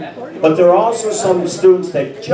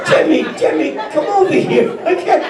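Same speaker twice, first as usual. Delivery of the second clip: exasperated teacher; 11 semitones higher than usual. Retold or imitated. Teacher calling the clueless student over, mock rage. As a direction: yell at the dumb kid to come here.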